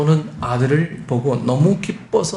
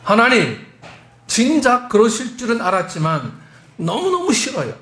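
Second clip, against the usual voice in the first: higher-pitched mock tantrum prayer; retold exasperated whine, pitched up; acted angry outburst; 5 semitones higher than usual. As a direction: vent at God like a sulking complainer. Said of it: "하나님께 막 분통을 터뜨립니다".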